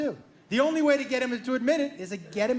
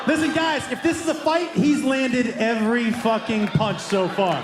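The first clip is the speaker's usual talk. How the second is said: louder, laughing outburst, slowing on the last line; loud aside to crowd; 4 dB louder than usual. Real, not acted. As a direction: cry out to the audience in mock defeat. Comic addresses audience loudly.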